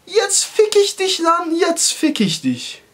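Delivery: high, drawn-out and strange; slow menacing vow. Retold or imitated. Swearing revenge on the barber, slow and high. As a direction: stretch each word out like a villain. Vows revenge inner thought.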